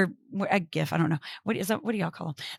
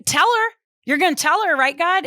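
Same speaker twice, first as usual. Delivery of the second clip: lighthearted exasperation; 6 semitones higher than usual. Acted. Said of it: "lightheartedness, even if she's exasperated".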